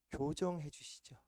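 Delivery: ordinary delivery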